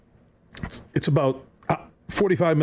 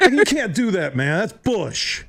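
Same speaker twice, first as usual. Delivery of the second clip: can't keep a straight face while complaining; laughing protest; 5 semitones higher than usual. Retold or imitated. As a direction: protest broken by laughter, pitched up. Retelling his protest, laughing through.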